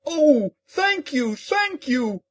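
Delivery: cried out thanks. Acted. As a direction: burst out with delight. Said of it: "cried the Scarecrow".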